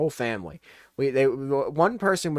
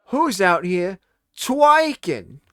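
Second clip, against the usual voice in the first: slow, drawn-out puzzled mom voice; hammed-up puzzled mom; mock mom voice; 3 semitones higher, 4 dB louder, much slower than usual. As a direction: drag it out like a confused mother. Mom misreading the word aloud.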